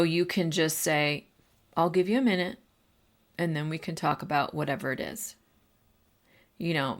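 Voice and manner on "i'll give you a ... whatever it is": calm voice. Shown as a demonstration. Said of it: "to use a calm voice".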